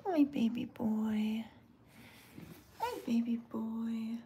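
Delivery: soft, slow whisper; whispered to a cat. Real, not acted. Woman whispering softly to a shy cat. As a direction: breathe the words gently to the kitten.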